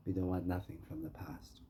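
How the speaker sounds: softly breathed, almost voiceless; hushed aside. Pretend. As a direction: drop to a near whisper, as if sharing a secret plan. Imagined speech to Tim, hushed.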